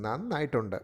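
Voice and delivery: making fun with "നന്നായിട്ടുണ്ട്"; mock praise, intonation shifted to sound absurd; satirical. Shown as a demonstration. Lecturer making fun of someone's work, satirical. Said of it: "when you shift the intonation pattern, it becomes, like, satirical".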